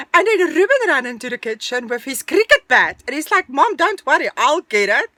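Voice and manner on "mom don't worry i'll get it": mock-heroic loud call to Mom; eager reassurance. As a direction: imitate an eager son stepping in. Son voiced rushing to rescue.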